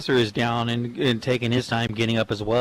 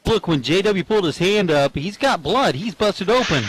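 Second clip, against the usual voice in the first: higher and louder, rising alarm; excited commentator; 5 semitones higher, 4 dB louder than usual. Real, not acted. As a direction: call it out, getting worked up. Blood spotted mid-match.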